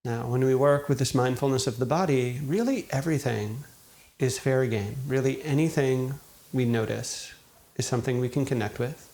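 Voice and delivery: calm, unhurried meditation guide, long pauses between phrases; guided meditation. Acted. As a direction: gently guide listeners into settling, leaving space after each thought. Leads a guided meditation after intro.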